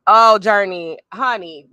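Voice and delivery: light up at a friend; delighted call out. Real, not acted.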